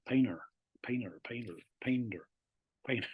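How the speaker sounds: PAINTER said American-style, T swallowed; dropped T. Shown as a demonstration. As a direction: drop the T in "painter", like "painer". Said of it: "it's kind of dropped the T".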